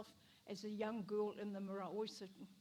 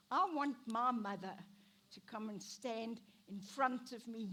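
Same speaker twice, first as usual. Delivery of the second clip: pleading outburst; 6 dB louder than usual. Retold or imitated. Retelling crying in labour.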